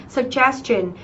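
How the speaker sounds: "Suggestion" as sug-GES-tion; stress before the ending. Shown as a demonstration. Teacher applying the tion rule, "Suggestion" stressed on GES. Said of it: "trọng âm của chúng ta giêm tiếp đứng đằng trước nó".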